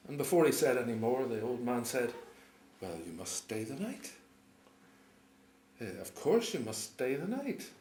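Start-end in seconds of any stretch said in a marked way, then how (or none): 2.8-7.7 proud welcome. A narrator's reading. Old man's hospitable boast, retold.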